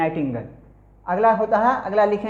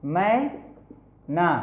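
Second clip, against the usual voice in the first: drawn-out word; 3 semitones lower, 4 dB quieter, much slower than usual. Shown as a demonstration. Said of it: "एम वाई एन ए एच".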